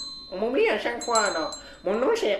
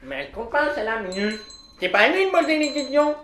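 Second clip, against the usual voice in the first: much higher and louder, shrill outburst; high shrill shout; 12 dB louder than usual. Acted. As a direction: screech it out high and loud. Character shouts excitedly.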